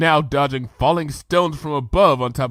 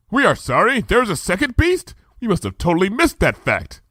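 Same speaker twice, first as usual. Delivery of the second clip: high regal voice, archaic speech; royal Luna voice; 8 semitones higher than usual. Acted. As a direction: speak as a grand princess. Luna realizes, decides.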